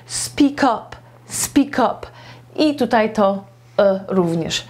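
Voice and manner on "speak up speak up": "Speak up" run together as one word, "spi-kap"; "speak up" with the k carried onto "up"; linked words. Shown as a demonstration. Teacher showing students how "speak up" joins into one word. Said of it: "połączy w jeden wyraz".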